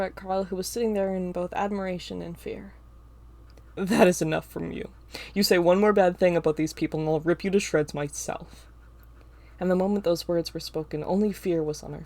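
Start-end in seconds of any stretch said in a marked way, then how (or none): 3.8-8.7 a hint of a growling threat; low growl. A narrator's reading. Winter threatens Ava, lightly growled menace. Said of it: "low growl in his words".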